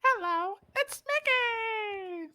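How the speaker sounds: piercing squeak, high and slow; squeaky cartoon mouse greeting; Mickey Mouse voice. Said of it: "Mickey Mouse impression".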